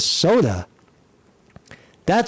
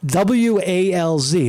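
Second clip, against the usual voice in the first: spelling out; 3 semitones higher, slower than usual. Shown as a demonstration. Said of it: "It's not Waltz".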